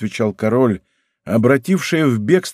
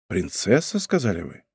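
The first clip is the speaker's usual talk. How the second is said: 1 startled murmur; 5 semitones lower, 7 dB quieter than usual. A narrator's reading. King startled, quiet.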